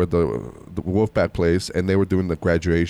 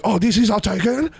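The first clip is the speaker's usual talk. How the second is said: put-on high, accented echo thrown back as a question; mocking Asian accent; 12 semitones higher than usual. Talking back to the lady in her accent, mocking it. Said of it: "I responded to her in her accent".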